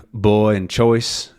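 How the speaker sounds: put-on BOY and CHOICE with a light, slow OI glide; lighter OI. Shown as a demonstration. Teacher showing Southern oi, lightened glide. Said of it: "a little bit lighter".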